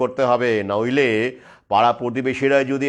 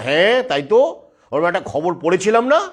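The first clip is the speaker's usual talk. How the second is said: higher questioning voice, imitating parents; sudden recollection; 4 semitones higher than usual. Parents suddenly recalling a news story, mock sudden recollection. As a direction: act out remembering, pitch lifting on each question. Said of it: "সঙ্গে সঙ্গে তাদের মনে পড়ে যাবে".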